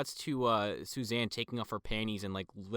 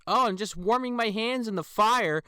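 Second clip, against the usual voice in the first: higher, louder, sing-song innocent; mock casual reply; 10 semitones higher, 9 dB louder than usual. Possessed woman answers the man at the fire, eerily casual. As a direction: play it eerily breezy.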